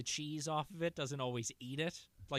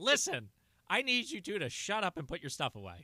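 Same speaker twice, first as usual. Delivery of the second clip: stern dad listen; 5 semitones higher, 4 dB louder than usual. Retold or imitated. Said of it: "if I start a statement with "Listen".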